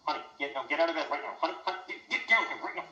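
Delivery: calling upstairs to wake her; yelling across the room. Acted. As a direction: shout up to the bedroom. Calling wife upstairs from below.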